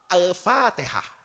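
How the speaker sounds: "Al-Fatihah" drawn out slowly; slow recitation. Retold or imitated. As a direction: stretch it like a solemn cue. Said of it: "itu langsung ngomong". ("Al-Fatihah" diucapkan pelan dan panjang)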